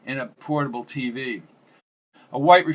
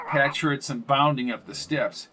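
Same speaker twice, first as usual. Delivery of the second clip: usual speaking voice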